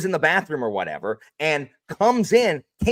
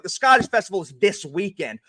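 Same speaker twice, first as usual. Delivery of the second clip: teacher voice; 4 semitones higher than usual. Retold or imitated. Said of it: "That's how I talk as a teacher".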